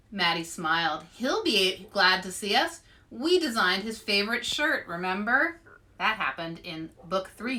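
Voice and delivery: put-on lively read-aloud voice for kids; story narration. A narrator's reading. Librarian reading a picture book to kids, lively storytelling voice.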